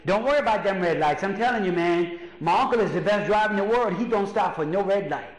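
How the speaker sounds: lightly voiced Cajun uncle; Cajun accent. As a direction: imitate a Cajun uncle insisting. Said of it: "he's got that accent".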